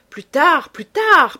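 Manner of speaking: loud, high, impatient outburst; urgent protest. A narrator's reading. Eager young man putting off his companion's questions, loud protest. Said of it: "protesta Beautrelet".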